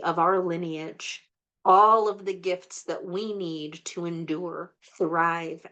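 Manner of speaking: measured spiritual invocation voice; guided blessing prayer. Acted. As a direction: call the blessings in like a ritual prayer. Leads an ancestral blessing prayer.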